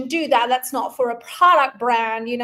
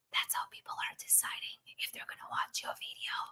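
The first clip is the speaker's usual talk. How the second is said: hushed, very quiet, breathy whisper. Creator tells viewers about the first seconds of videos; whispering. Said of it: "Does that sound cool when I'm whispering?".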